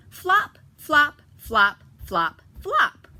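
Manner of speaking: flop flop called out loud and high; flopping sounds. Acted. Teacher acting out ducklings flopping for kids, loud and high. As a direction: bounce each flop out loudly.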